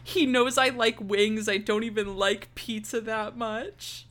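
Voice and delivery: hammed-up tearful complaint; imitating crying. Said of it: "she's just crying to Anne".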